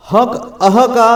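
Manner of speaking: हक and अह drawn out very slowly; slow demo of the sound. Shown as a demonstration. Teacher slowly sounding out visarga for the class. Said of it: "अंगह का उच्चारण नहीं ला सकते".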